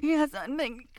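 loud, high climactic crying out; ecstatic cries. Acted. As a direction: let it break into full-throated ecstasy.

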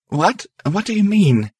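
high, gently questioning voice; soft, comforting. A narrator's reading. Lucky comforting guilt-ridden Star, softly. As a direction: ask with tender concern, pitched high. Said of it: "her voice soft and comforting".

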